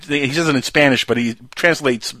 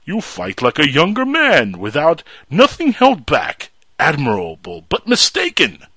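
slow, menacing Bane voice; a hint of a slow menacing Bane; Bane impression. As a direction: menace him slowly like Bane. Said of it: "and he's like".

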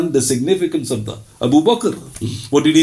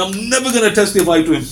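higher, fast defiant vow; stubborn refusal; 6 semitones higher, faster than usual. Retold or imitated. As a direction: spit out the refusal quickly. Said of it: "He goes".

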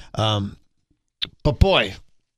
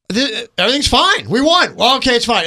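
higher, acted rush of reassurance; mock relief; 6 semitones higher, 4 dB louder than usual. Host voicing a fan after a Bears win, excited relief. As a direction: play the fan suddenly convinced all is well. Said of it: "then you're like".

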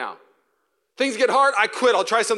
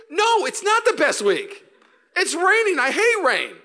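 mock grumpy reply; 12 semitones higher, 5 dB louder than usual. Grumpy reply to positive friend.

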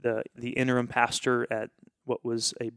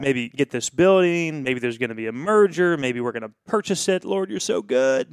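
loud, eager praise to God; excited prayer; 2 semitones higher, 5 dB louder than usual. Retold or imitated. Pastor thanking God he sees the plan, loud and thrilled. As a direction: pour out the excitement, louder. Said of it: "And then I'm like".

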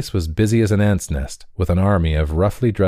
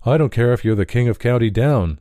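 higher, brusque stable owner; dismissive liveryman; 5 semitones higher than usual. A narrator's reading. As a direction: brush the Irishman off. Liveryman mocks Liam.

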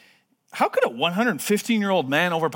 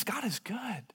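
hushed, unvoiced and intimate; whisper; 7 semitones higher, 11 dB quieter, slower than usual. Real, not acted. Preacher whispering his conviction to the congregation, whispered. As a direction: breathe it out in a real whisper.

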